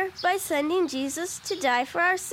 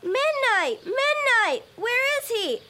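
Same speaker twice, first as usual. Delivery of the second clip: higher-pitched, dismayed cry; distressed; 3 semitones higher than usual. Acted. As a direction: call anxiously for the lost horse. Her horse has run off.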